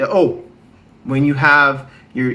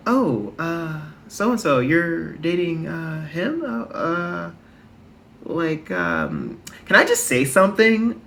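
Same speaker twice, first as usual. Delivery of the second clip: imitating racist friends; 3 semitones higher, 3 dB quieter, slower than usual. Kinda racist friend questions who you're dating, mock hesitant. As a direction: softly hedge with uhs, voice lifted, mocking the friend. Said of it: "they're just like".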